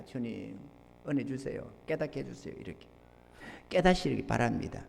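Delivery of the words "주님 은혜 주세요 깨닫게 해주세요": very soft, low plea; restrained prayer. Acted. Pastor quietly asks the Lord to enlighten members, restrained prayer. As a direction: pray under restraint, barely voiced. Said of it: "이 끄고 참고 있는 겁니다".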